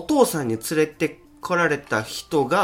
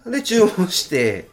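slow, stifled laughter; fighting back a giggle; trying not to laugh; 7 semitones higher, 3 dB louder, slower than usual. Real, not acted. Laughing while telling funny story. (笑いをこらえて)

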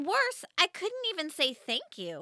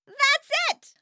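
high, much louder excited scream; 13 semitones higher, 8 dB louder than usual. Acted. Girl screaming in sudden realization to mom, high and loud. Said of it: "I screamed".

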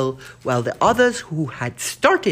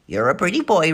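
parrot repeat; 4 dB louder than usual. Acted. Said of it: "repeated the bird".

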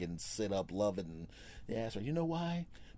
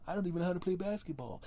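tall guy; 10 semitones higher, faster than usual. Retold or imitated. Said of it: "You're gonna go".

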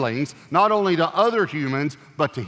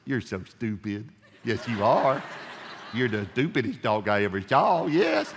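sweet dog talk; 3 semitones lower than usual. Shown as a demonstration. Talking to your dog at home, cooing mock insults sweetly. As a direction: croon the insults lovingly, with a laugh. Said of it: "I want you to say it like this".

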